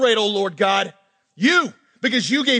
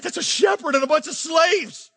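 scoffing pharaoh; 9 semitones higher than usual. Retold or imitated.

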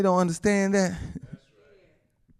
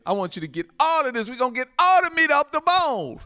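starts level, climbs to a high pulpit cry; building preaching; 8 semitones higher than usual. Real, not acted. Preacher urges congregation to get all of this, building fervor. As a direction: swell into an exhortation.

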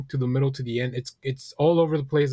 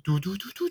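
gear grinding noises; 5 semitones higher, 6 dB quieter than usual. Retold or imitated. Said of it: "Gears grinding".

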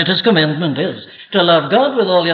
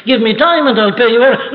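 desperate pleading servant; 5 semitones higher, faster than usual. Retold or imitated. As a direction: beg frantically for time. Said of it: "He pleaded".

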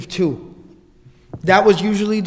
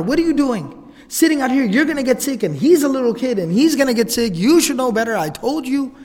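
higher, raised mock telling-off; retold yelling; 5 semitones higher than usual. Mother telling off daughter for leaving brother in sun, mock yelling. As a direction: scold her like a worried mother. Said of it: "I start yelling at my daughter".

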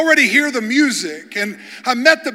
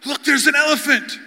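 tag; 5 semitones higher than usual. Retold or imitated. Safari crowd spots first elephant.

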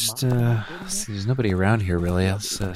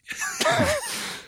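giggle; 4 dB quieter than usual. Real, not acted. Laughing at own accent.

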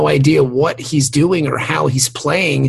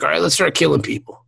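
quick mock redneck voice; lightly voiced redneck; redneck guy; faster than usual. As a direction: imitate an eager redneck. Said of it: "the redneck guy s-, goes like".

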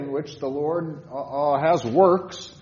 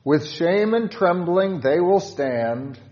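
hymn line read aloud; 3 semitones higher, 5 dB louder than usual. Shown as a demonstration. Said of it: "Stanza four".

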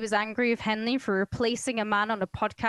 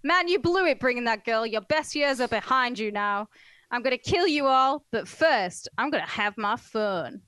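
a hint of a menacing killer; lightly voiced killer threatening, louder on the threat; imagined killer's voice; 2 semitones higher, 3 dB louder than usual. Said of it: "That's how I imagined he said it".

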